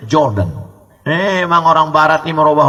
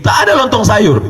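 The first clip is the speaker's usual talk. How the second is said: laughing joke; 7 semitones higher, 3 dB louder than usual. Real, not acted. Joking about hotel breakfast.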